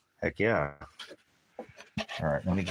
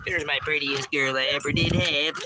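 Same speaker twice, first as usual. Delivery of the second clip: higher-pitched cooing praise to a pet; pet-talk; 7 semitones higher than usual. Real, not acted. Owner greeting the prettiest girl, pet-talk. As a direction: fuss fondly over a favorite animal.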